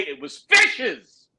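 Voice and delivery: loud, high, drawn-out outburst; exasperated exclamation. Real, not acted. Protesting what flew out at the entrance, loud exasperation. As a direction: stretch it out in loud disbelief.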